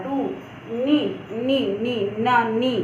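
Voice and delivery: दू... नी, नी sounded out slowly syllable by syllable; syllables drawn out. Shown as a demonstration. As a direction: model दू नी carefully for the class. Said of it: "आप उच्चारण करिए".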